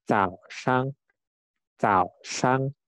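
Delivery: 早上 with its Z said like the letter C; Z read like C. Shown as a demonstration. Teacher showing learners the word for morning, 早上 with C-like Z. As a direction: say 早上 starting on a crisp C sound. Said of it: "Huruf Z itu dibaca seperti huruf C".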